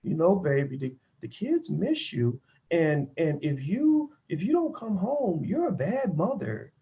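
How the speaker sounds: slow, soft manipulative coaxing; guilt-tripping husband. Retold or imitated. Husband with the kids guilting his wife, slow and soft. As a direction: ease her back home with guilt. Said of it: "And he's like".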